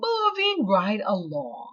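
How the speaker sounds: ordinary delivery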